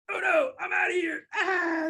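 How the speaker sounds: high, squealed owl in pretend fright; hammed-up cry of alarm; mock panic. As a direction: squeal as you flee. Frightened owl flees in story.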